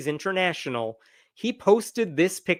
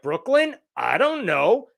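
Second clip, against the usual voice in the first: mock feigned ignorance; 4 semitones higher than usual. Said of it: "And he's like".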